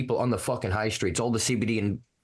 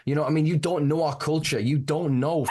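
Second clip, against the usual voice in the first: fired up; 5 semitones higher than usual. Real, not acted. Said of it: "I'm getting fired up".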